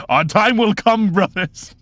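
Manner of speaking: very high, slow, loud holler; rousing battle cry. Acted. Leader promising his brothers glory, rousing battle cry. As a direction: cry it out to the whole troop.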